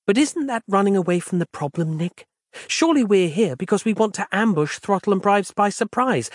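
lightly voiced patient former editor; Roz, calm and patient. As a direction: explain the situation gently. Roz's voice.

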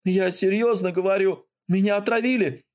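rattled off fast. Acted. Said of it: "Скороговоркой выпалил он".

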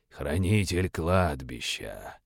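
slow low hiss; demonic whisper. Acted. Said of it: "прошипел демонолог".

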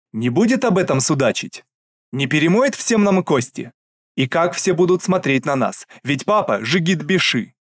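loud worried rebuke; angry reproach. Acted. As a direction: pile on the blame. Sister continues tirade. (гневный упрёк)

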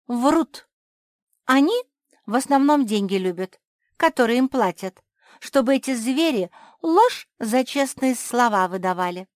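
high, loud, mocking crow; lightly voiced crow. The crow mocks the ant judge, lightly voiced. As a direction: sneer at the fake truth-seeker.

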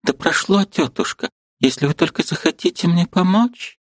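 put-on quickly livening girl's voice; sudden animation. A narrator's reading. Liza with sudden animation asking her aunt for help. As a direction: brighten with sudden hope. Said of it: "с внезапным одушевлением".

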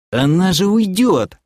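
high-pitched dismayed cry; frantic yell. Acted. Doc tears his hair as she leaves, yelling. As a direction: wail as she slips away. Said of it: "заорал док".

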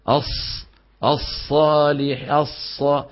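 spoil the ص in "الصالح" with the lip in the way; distorted sad. Shown as a demonstration. Teacher imitating the mistake, "الصالح" with a lip-distorted ص. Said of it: "بيؤدي هذا إلى اختلال".

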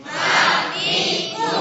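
ma mi mu sung out high. Shown as a demonstration. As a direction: lift the syllables way up. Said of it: "jangan sampai suara hidung".

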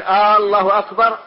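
"الله" begun with a long "آه", like a question word; stretched hamza. Shown as a demonstration. Teacher explaining how it turns into a question, "الله" with stretched first hamza. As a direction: lengthen the opening vowel of "الله" to "aa-llahu". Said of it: "عاد الخبر استفهاما".

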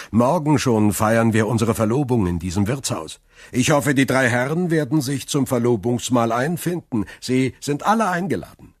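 Dantès inviting the men to his engagement, happily; joyful Dantès. Acted. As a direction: beam as you invite them.

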